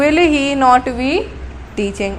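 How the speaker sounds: very slow, word by word; slow dictation. Shown as a demonstration. Teacher dictating to students, very slow and drawn out. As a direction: spell it out slowly for the class.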